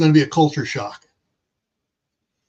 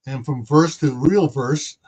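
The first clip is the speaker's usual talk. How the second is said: put-on light German accent, W as V; 3 semitones lower, slower than usual. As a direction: say verse for worse in German accent. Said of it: "throwing a little German accent in there".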